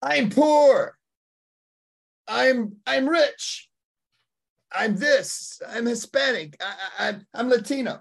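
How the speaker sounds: put-on very high, loud baby voice; imitating a newborn announcing itself. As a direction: squeal it out like a comically self-declaring newborn. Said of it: "a kid doesn't come out and go".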